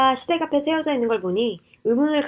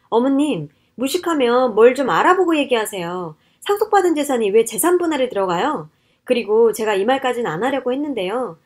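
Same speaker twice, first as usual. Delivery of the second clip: indignant daughter-in-law, voice raised a little; angry rebuke; 4 dB louder than usual. Acted. Wife rebukes mother-in-law over inheritance claim, angry. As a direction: put her in her place, heated.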